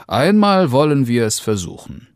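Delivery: lightly voiced amused father. A narrator's reading. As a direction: give in with amusement. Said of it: "Da lachte der Vater und sprach".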